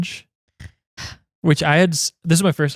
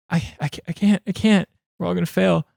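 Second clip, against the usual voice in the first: higher, stammered mock despair; mock panic; 4 semitones higher than usual. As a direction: act out a class giving up. Retold panic of the class.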